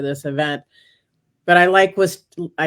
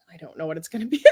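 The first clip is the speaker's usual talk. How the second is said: hushed, breathless whisper of a panicked thought; 9 dB quieter, much faster than usual. Retold or imitated. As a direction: whisper it to yourself in sudden doubt. Retells her panicked thought in the car.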